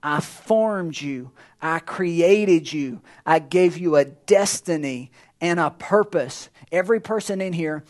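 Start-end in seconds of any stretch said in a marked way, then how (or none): 0.0-6.5 lower, slow and weighty; God speaking slowly to Jeremiah, solemn. Retold or imitated. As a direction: speak as God, measured and grave. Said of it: "he says".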